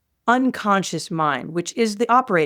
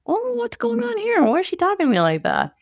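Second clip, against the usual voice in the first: high, startled, then quick; the critic caught off guard, high and fast; puzzled inner critic; 12 semitones higher than usual. Retold or imitated. Host voicing her inner critic taken aback, high and quick. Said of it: "down and is like".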